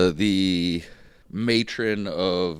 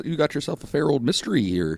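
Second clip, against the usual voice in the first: a hint of a folksy Canadian accent, pitched higher; put-on Canadian accent; 5 semitones higher than usual. Co-host teasing about the mystery, a light Canadian accent. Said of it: "Where'd the Canadian come out?".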